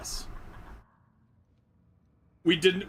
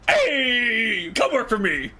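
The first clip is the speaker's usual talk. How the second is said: friendly offer; 8 semitones higher, 4 dB louder, slower than usual. Retold or imitated. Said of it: "And we said".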